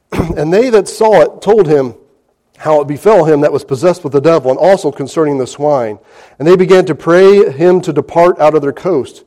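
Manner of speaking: formal King James reading; scripture reading. Acted. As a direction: read the verse out to the congregation. Reads scripture aloud.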